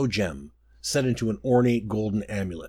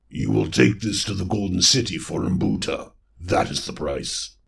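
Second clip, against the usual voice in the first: a lightly voiced toad monster; low, heavy swamp lord demanding payment; hint of a croaking beast; toad creature; 3 semitones lower than usual. Mbuta the toad creature speaks.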